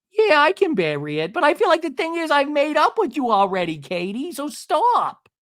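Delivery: high, loud mock-argument; heated retort. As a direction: act out her protest, high and loud. Retold quarrel, refusing to drop it.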